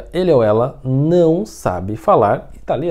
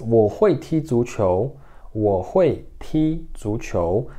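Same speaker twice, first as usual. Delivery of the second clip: slow, careful Mandarin demo; slow teacher modelling Mandarin; slow model sentence; slower than usual. Shown as a demonstration. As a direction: say it slowly for students to repeat. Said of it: "teacher models Mandarin sentence".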